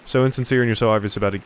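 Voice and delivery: rushed repeat of the line to fix the name; fast redo. Shown as a demonstration. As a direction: rattle "So insincere" off quickly. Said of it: "or Guy, sorry".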